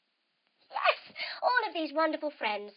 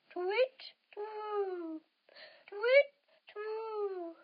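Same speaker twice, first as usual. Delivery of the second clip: owl hoot; 7 semitones higher, much slower than usual. Acted. Owl hooting in a kids' yoga story.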